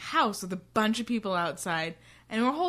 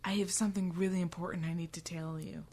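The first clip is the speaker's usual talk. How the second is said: hushed fast whisper, acting Ben; whispered confession; 6 dB quieter than usual. Ben whispering his confession to Clea, hushed and quick. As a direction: whisper it like a nervous secret. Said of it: "He's like".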